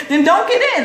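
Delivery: high, laughing brush-off; laughing retort. Real, not acted. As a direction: laugh it off: then don't get in.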